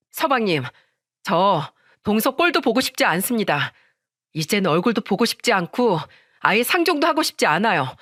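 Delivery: mildly heated wife ordering someone out; firm, upset demands to get out; angry wife, fed up. Acted. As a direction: push them out, then plead in exasperation.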